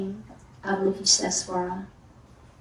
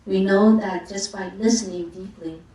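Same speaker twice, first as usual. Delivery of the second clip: contemplation reading. Acted. Teacher reads chanting-book invocation to Avalokiteshvara, measured recitation. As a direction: read it as a steady invocation.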